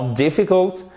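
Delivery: DIFFICULT with weight on DIF; English DIFFICULT, strong opening syllable; stress on first syllable. Shown as a demonstration. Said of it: "Accent tonique sur la première syllabe".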